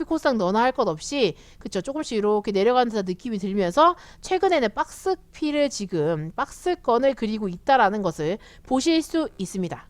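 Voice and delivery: ordinary delivery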